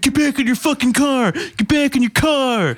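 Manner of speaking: imitating the drunk guy, high and pushy; mock yell. The drunk guy yelling at him to get back in his car. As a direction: bark the order back at him. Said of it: "the guy's like".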